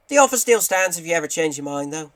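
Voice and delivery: high, loud, badly faked character voice; terrible Graham. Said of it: "terrible Graham impression".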